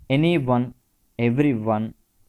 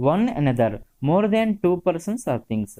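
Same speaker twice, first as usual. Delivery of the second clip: slow reading; 4 semitones higher, much slower than usual. Shown as a demonstration. Teacher reading definition.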